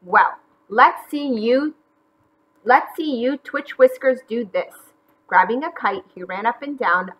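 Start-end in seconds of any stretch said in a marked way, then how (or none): 0.0-4.8 taunting. Acted. Taunting the bunnies.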